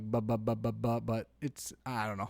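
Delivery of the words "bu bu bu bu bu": put-on baby babbling. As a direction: mimic a baby trying to say bubba. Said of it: "it's more like".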